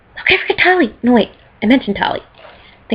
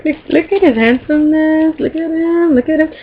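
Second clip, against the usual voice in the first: swooning fangirl; 7 semitones higher than usual. Real, not acted. Swooning over Garrus picture.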